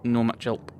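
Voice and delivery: lightly put-on rustic country accent; a hint of an old rural English accent, drawn out; mild rustic English accent, slowing at the end. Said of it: "with no more of that accent".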